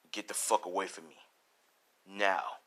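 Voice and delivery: low, soft warning; hushed, hostile order to back off; cold rejection. Acted. Deku coldly rejects the girl.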